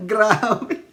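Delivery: real laughter breaking into speech; gasping amusement between bursts of laughs; cracking up. Real, not acted. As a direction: talk high through helpless laughing. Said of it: "Tawang-tawa talaga ako".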